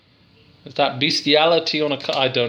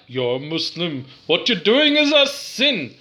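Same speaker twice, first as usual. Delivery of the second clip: mock scolding critic; 3 semitones higher than usual. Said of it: "So people like".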